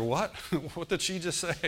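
amused, laughing what-did-she-say; laughing disbelief. Retold or imitated. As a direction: laugh through the stunned question. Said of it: "I'll be standing there".

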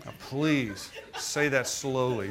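slow, amused request; laughing plea to slow down; slowly, laughing. Retold or imitated. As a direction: ask it slowly through a laugh. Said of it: "I had to have him repeat everything he said".

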